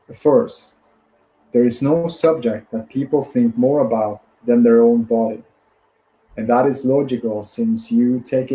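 measured book reading in phrases; deliberate self-help audiobook reading; read-aloud narration. Acted. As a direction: read the passage out steadily, pausing between phrases.

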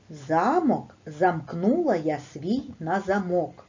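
slow, clear recital for the class; reading aloud to children. Shown as a demonstration. Teacher reading a tongue twister to her pupils, slow and clear.

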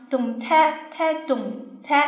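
vocalised belly-dance drum beat, dum and tek; spoken drum pattern. Shown as a demonstration. Teacher shows a belly-dance rhythm, spoken drum beats. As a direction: count out a drum rhythm in syllables. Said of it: "有一种方法叫".

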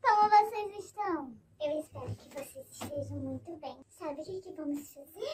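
voice changer. Real, not acted. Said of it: "A mina usa modificador de voz".

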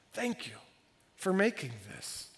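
quiet thanks. Retold or imitated. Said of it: "to just tell him".

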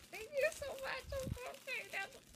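very high, gushing thank-you; a high, giddy thank-you to the friend; squealy thanks. Real, not acted. Thanking the gift sender.

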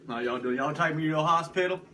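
lightly put-on Southern accent; a hint of Southern twang; Southern guy. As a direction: play a Southern patient, lightly. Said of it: "I'm gonna be a Southern guy".

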